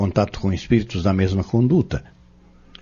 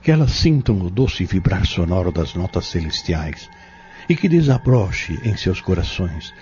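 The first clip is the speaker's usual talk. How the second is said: solemn prayer. Acted. Fabrício prays for the tormented girl, solemn and pleading. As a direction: pray earnestly over the possessed girl.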